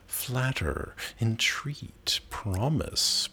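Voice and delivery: soft breathy whisper of each word. A narrator's reading. Lover whispering pleas into Hero's ear, hushed. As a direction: whisper them like secrets in her ear. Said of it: "lets him whisper in her ear".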